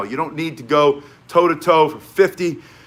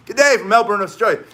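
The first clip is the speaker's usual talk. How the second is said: a lightly put-on Australian accent, higher, reading a viewer's greeting; mock Australian greeting, half-hearted; bad Australian accent; 5 semitones higher, 3 dB louder than usual. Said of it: "My accents are horrible".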